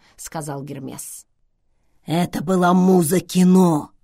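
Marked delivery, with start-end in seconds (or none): 2.0-3.9 drawn toward a confidential aside, still full-voiced; confiding. A narrator's reading. Schweiger tells Vivian about the muse, confidingly. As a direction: share it as a proud little secret. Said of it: "доверительно сказал Швайгер".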